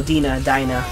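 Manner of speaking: "Dina" as DEE-na, then "Dinah" as DIE-na; two pronunciations side by side. Real, not acted. Unsure of the new bestie's name, DEE-na "Dina", DIE-na "Dinah". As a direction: toss out "Dina" with ee, "Dinah" with eye. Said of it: "I don't know".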